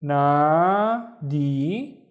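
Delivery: "Nadi" drawn out slowly; Arabic nadi. Shown as a demonstration. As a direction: model "Nadi". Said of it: "Il is the first syllable".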